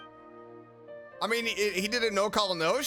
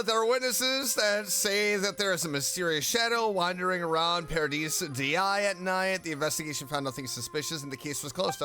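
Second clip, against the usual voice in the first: reading game text aloud. Acted. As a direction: read it out like an on-screen notice.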